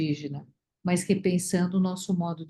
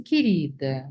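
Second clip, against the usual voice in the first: "querida" dropped lower, as an empty expression; dismissive querida; 5 semitones lower, slower than usual. Shown as a demonstration. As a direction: say "querida" lower, as a hollow formula. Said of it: "querida tem uma entonação".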